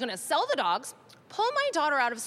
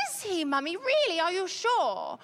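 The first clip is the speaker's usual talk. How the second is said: imitating a child, pitched higher, disbelieving; high doubtful child; 4 semitones higher than usual. Daughter doubting her mum, high mock-child questions. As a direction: play the doubting little girl.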